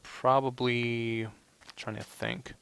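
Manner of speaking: talking while eating lunch; words through a mouthful of food; mouth full. Real, not acted. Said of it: "that's my lunch".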